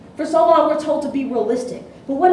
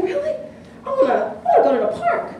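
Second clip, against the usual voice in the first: put-on excited little girl; 12 semitones higher, faster than usual. Child's excited reply, voiced.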